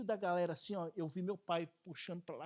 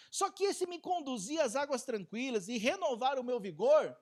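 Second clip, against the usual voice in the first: ordinary talk, nothing marked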